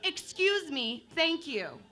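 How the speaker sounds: lilting mock-sweet excuse me, thank you; sugar-coated but pushy; politely aggressive. Shown as a demonstration. Comic contrasting the polite-aggressive take with the monotone one. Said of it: "It went a little something like this".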